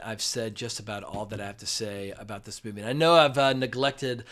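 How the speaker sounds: blocked nose, congested; nasal sick voice. Real, not acted. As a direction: talk through a stuffed-up nose. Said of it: "my nasally voice".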